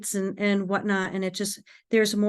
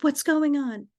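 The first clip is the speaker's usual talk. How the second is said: higher imitated mom voice; worried mother; 7 semitones higher than usual. Mother on the phone to daughter, worried. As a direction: ask it as an anxious mother.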